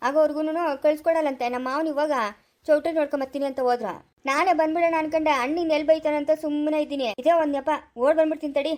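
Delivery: itching to get away and happy for the excuse; eager, restless complaining. Acted. Eager man escaping his wedding house.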